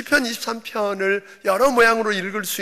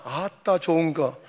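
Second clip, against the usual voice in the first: closing 아멘이지라 in Jeolla dialect, the last word louder; 4 dB louder than usual. Pretend. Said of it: "전라도 버전은".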